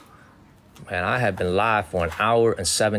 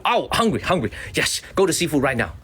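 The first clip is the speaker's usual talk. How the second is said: higher, eager mock voice; hammed-up excitement about seafood; teasing the assistant's sudden appetite; imitating Harry; 5 semitones higher than usual. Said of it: "And then he heard the word seafood".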